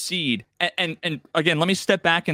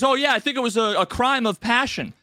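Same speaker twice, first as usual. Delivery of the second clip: higher, mock-casual excuse; bluffing NPC; 7 semitones higher than usual. Quest giver inventing a crime for the cop, mock bluff. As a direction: fumble a made-up answer. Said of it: "And he says".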